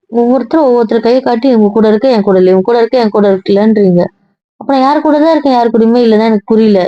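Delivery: worked-up, pleading outburst; emotional outburst. Acted. Wife, accused of avoiding everyone, protests emotionally. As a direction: pour it out, voice climbing in frustration. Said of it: "ஏன் இப்படி emotional ஆகுற?".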